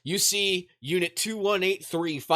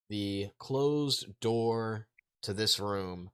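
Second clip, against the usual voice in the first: ordinary talk, nothing marked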